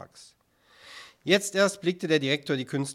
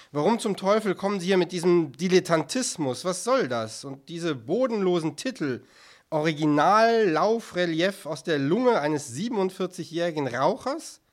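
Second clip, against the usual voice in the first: mildly raised, indignant questioning; exasperated tirade; 4 semitones higher, 5 dB louder than usual. Acted. Director berates artists over dilettantism, exasperated. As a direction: demand an explanation, exasperated.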